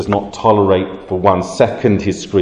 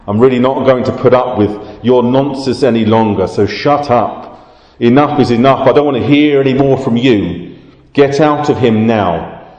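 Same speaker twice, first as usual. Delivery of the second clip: stern rebuke; 3 semitones higher than usual. Retold or imitated. Jesus ordering the demon out, a firm raised rebuke. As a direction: scold the demon with no patience left. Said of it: "What Jesus was literally saying was along the lines of".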